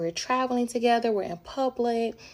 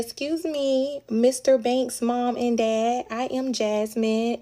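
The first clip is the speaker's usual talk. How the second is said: slow formal politeness; 3 semitones higher, 3 dB louder, slower than usual. Retold or imitated. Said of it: "I said".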